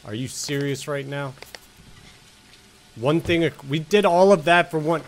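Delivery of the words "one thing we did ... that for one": frustrated. Real, not acted. Frustrated at poor game reward.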